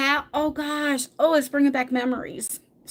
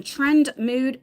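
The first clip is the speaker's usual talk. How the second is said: Trend Mood as two separate, careful words; deliberate delivery of the brand name; said slowly; 2 semitones higher than usual. Shown as a demonstration. Vlogger has to think about the name, said slowly. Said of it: "See how I have to say it slow?".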